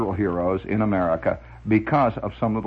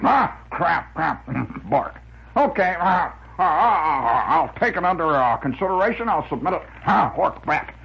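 windbag major voice; 4 semitones higher than usual. Retold or imitated. Doing the windbag voice at mother.

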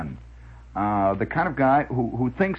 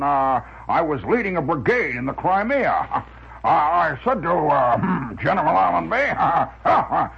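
put-on blustering old windbag; 4 semitones higher than usual. Blustering Crimea war story impression.

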